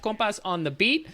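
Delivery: put-on light Spanish accent on the show name; a careful attempt at a Spanish accent. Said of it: "That's my attempt at a Spanish accent".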